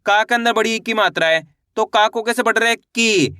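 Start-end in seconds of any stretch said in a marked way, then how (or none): 2.9-3.3 "की" said with a long, held ee; drawn-out long ee. Shown as a demonstration. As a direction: stretch "की" out for the class. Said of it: "खींच के पढ़ना है की". ("की" को खींचकर पढ़ो)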